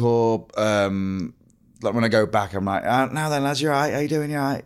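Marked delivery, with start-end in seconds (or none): 2.8-4.6 higher, broad Grimsby greeting; cheery northern Grimsby hello; Grimsby accent. Retold or imitated. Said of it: "still got a Grimsby accent".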